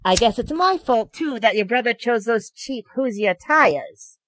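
high, smirking taunt; high-pitched sneering villain; mocking. A narrator's reading. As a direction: goad a rival with fake guilt. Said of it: "Yuya continued on mockingly".

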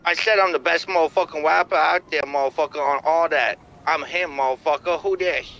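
deep goofy rapper. Acted. Caller boasting to the stranger in a low put-on voice. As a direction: puff up like a street rapper.

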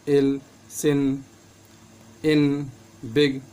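इल, सिन, इन, बिग with a short i, spaced apart; short i sound. Shown as a demonstration. Teacher reading examples of the small i, short i. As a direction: say each word separately with a short i. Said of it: "आई का उच्चारण छोटी ई के रूप में".

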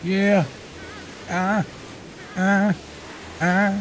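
excited. Real, not acted.

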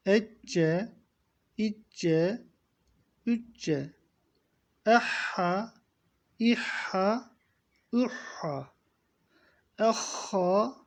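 Ehha with a throaty doubled h; Ecce, Ehha, doubled consonants; doubled Arabic letters drill. Shown as a demonstration. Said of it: "Bakın telaffuzlara dikkat edin".

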